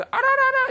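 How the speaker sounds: short, high, loud tongue trill; trilled ululation. Shown as a demonstration. Asking the teacher what it means, high trilled ululation. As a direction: demonstrate the ululating cry. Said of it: "이거 무슨 뜻일까요".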